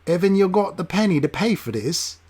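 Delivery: mild rough inquiry. Acted. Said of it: "he inquired".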